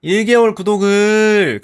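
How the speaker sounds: high, slow strained voice; words squeezed out during a workout; straining mid-exercise. Real, not acted. Straining during workout, thanking sub.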